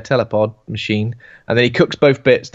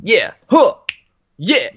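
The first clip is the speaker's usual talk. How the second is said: baboon voice; 8 semitones higher, 3 dB louder, slower than usual. Retold or imitated. Baboon voiced walking down street.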